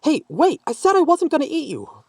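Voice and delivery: put-on high, loud call after a fleeing kid; shouting after the child. A narrator's reading. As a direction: yell after her to stop. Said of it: "Patricia shouted after the child".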